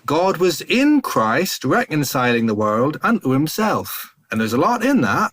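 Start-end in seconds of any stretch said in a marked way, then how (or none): 0.0-4.1 slow, sing-song Norfolk grandpa, pitch swooping high; drawn-out recitation in a Norfolk accent. Retold or imitated. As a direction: imitate an old preacher's broad Norfolk accent. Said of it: "in his kind of Norfolk action, accent".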